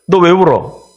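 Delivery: a suspicious onlooker calling him out; accusing bystander. Retold or imitated. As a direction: servant demanding why he weeps. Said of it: "그럴 거 아니에요".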